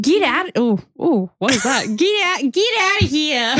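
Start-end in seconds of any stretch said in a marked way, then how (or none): 0.0-0.5 put-on higher-pitched go at an Irish accent; attempted Irish accent. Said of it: "we should try to do Irish accents". 2.0-3.5 higher-pitched, badly faked Irish accent; Irish accent landing in the wrong place; attempted Irish accent. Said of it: "That's not the right location at all".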